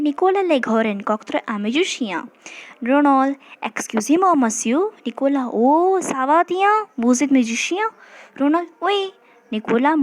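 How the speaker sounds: slow French read-aloud for learners; French model reading. Shown as a demonstration. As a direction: read the French out carefully, phrase by phrase. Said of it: "पहले पूरा French read करूँगी ताकि आप लोग accents को, sound को".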